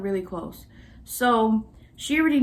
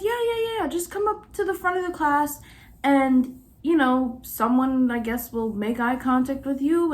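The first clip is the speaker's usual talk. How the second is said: mock-casual professor; 4 semitones higher than usual. Professor's casual advice, retold.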